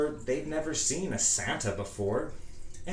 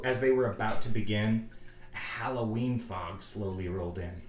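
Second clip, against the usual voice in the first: usual speaking voice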